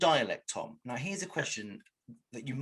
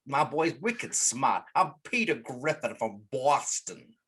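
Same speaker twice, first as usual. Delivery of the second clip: slow, hammed-up Boston accent; 3 dB louder, slower than usual. Shown as a demonstration. Showing co-hosts the New England accent, mock Boston accent. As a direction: stretch it out in broad, comic Bostonian. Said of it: "Can you do that accent".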